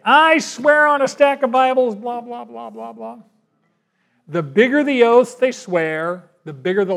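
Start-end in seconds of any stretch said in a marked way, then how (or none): 0.0-3.2 mock oath. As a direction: ham up a liar's big oath, then let it trail off. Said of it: "you hear people do that today".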